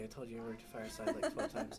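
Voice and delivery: fast, laughing complaint; amused mock exasperation. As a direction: rattle it off while laughing. Exasperated at forgetful teacher.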